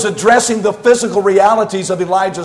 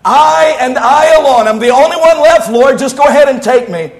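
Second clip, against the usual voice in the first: mocking Elijah's whine; 4 semitones higher than usual. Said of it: "What was it you said to me".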